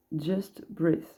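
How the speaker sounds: reading English card text with French accent. Real, not acted. Reader reading the card's English aloud, French-accented. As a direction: try the English, heavily French. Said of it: "J'ai pas l'accent anglais".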